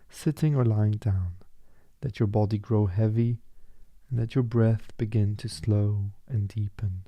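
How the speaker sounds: calm, measured meditation voice with pauses; guided meditation. Acted. Guide asking listeners to let the body grow heavy, calm meditation voice. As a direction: ease them gently into stillness.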